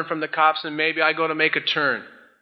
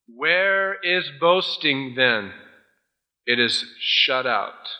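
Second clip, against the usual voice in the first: very slow, deliberate verse reading; scripture reading; 3 semitones lower, much slower than usual. Acted. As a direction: read the verse out slowly, drawing out each word. Reads the verse aloud.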